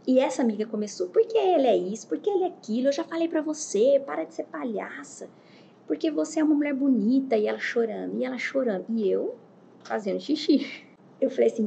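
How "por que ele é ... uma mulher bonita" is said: higher-pitched imitation of a ranting friend; lightly acted scolding of a friend; retold telling-off, pitched up; mock scolding. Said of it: "a outra amiga xingando o homem".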